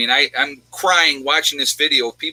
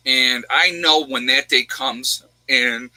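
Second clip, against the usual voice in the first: choking up; slower than usual. Real, not acted. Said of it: "hold on a second".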